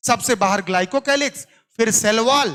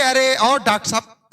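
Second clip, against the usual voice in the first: mocking taunt; 2 semitones higher, 3 dB louder than usual. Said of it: "बड़ा व्यंग कसते हैं, टॉन्ट मारते हैं".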